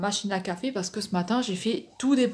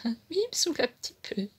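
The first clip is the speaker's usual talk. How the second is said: higher, laughing through the words; laughing admission; 3 semitones higher than usual. Real, not acted. Vlogger confiding about her noisy partner, laughing. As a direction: giggle while owning up to it.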